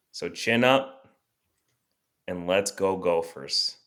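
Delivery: measured speech with long dramatic pauses; deliberate rallying monologue; pep-talk speech. Acted. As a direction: address the fans like a solemn orator, pausing between phrases. Continues speech to fans.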